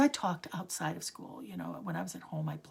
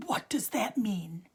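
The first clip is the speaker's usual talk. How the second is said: slower, louder, pressing demand; irritated demand; 3 semitones higher, 6 dB louder than usual. Retold or imitated. Teacher demanding the meaning, irritated and pressing. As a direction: push for an answer, losing patience. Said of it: "And he said".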